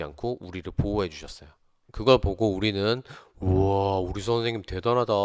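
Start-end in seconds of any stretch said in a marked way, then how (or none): 3.4-5.1 acted admiration. Students amazed by their teacher standing up for them, awed. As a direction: imitate impressed students marvelling.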